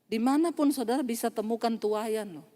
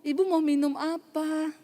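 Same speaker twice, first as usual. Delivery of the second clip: polite, grateful offer; 4 semitones higher than usual. Retold or imitated. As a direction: offer a drink sweetly and politely. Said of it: "terima kasih ya Ibu".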